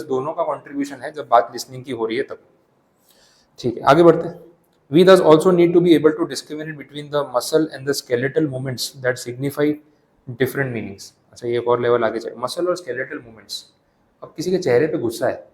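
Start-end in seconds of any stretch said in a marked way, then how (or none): 4.9-11.0 slow, deliberate reading aloud from the book; textbook reading. Acted. Teacher reading the definition to students, slow and deliberate. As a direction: read each word out slowly for the class.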